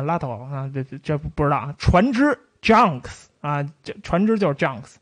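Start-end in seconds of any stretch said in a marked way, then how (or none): 1.8-3.6 slow pidgin demo. Shown as a demonstration. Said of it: "我尽量模仿这个洋泾浜语的发音".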